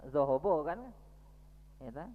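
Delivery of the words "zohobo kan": "zohobo" with rounded o vowels throughout; dibaca zohobo. Shown as a demonstration. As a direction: say "zohobo" with full o sounds, not za. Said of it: "enggak dibaca za". ("zohobo" diucapkan dengan vokal o)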